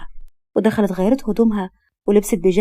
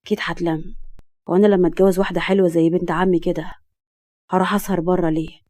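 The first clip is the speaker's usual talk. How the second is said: drifting off to sleep; 2 semitones lower than usual. Acted. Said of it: "وهو بينام".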